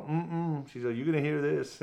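lightly voiced church lady putting her foot down; stern lady. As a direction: nurse refusing to stop, mildly voiced stern.

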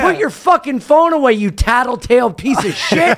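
high, heated insults; heated mock tirade with a laugh creeping in; retold angry taunting. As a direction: re-enact cussing someone out in the street. Retold street quarrel, own angry taunts.

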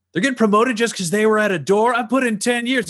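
high, whiny outraged underling; indignant underling. Acted. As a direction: squeal it out in disbelief. Underling's shocked reply over intercom.

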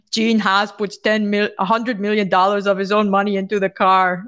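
half-hearted German accent, admitted as bad. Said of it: "I can't do the German".

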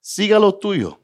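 a hint of mom speaking Spanish; mom in dream. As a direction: say it like a loving mother's blessing. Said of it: "she said to me was".

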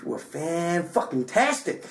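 slow, drawn-out praise, lightly imitated; Dave Chappelle. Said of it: "In his, in his way".

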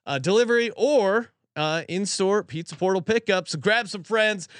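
upbeat host-read pizza ad, stressing each offer. Acted. Host reading a sponsor spot to podcast listeners, upbeat ad read. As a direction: sell the pizza deal to listeners, lightly.

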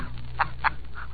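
breathy little laugh; amused chuckle. Acted. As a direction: laugh him along. Winthrop amused by Holliday.

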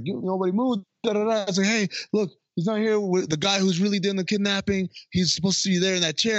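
high, fast mock pleading; excited explaining. Guys explaining to cops, high fast mock pleading. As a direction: babble it out high and quick. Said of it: "the cops are like".

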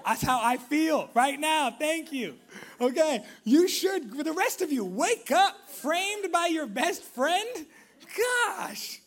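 loud, high, exasperated scolding of the crowd; mock outrage. Real, not acted. Preacher to his congregation after one gasp, mock outrage. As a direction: shout it as if appalled they didn't react.

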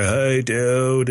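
throaty, from-the-diaphragm surfer greeting; lightly voiced laid-back surfer; surfer dude. Shown as a demonstration. Showing what the accent is not, throaty surfer dude. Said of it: "not so diaphragmy or throaty".

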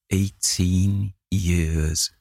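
very slow, heavy answer; grim and slow. Acted. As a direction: drag out each word grimly.

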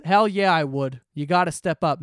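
loud, punchy mock bravado; retold cocky answer, punched out; gung-ho boast. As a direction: play an eager candidate firing back loudly. Acting out candidate's gung-ho answer.

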